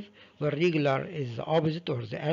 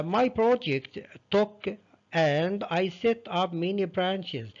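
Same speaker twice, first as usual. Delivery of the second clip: slow dictation; 3 semitones higher, much slower than usual. Shown as a demonstration. Teacher reads question slowly.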